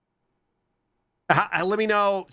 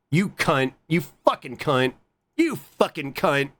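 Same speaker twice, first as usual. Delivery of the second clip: mild build of irritation, last one slower; aggressive cursing. Real, not acted. Streamer swearing at tech that won't work, mildly aggressive. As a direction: curse the thing under your control, insistently. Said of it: "I got really aggressive".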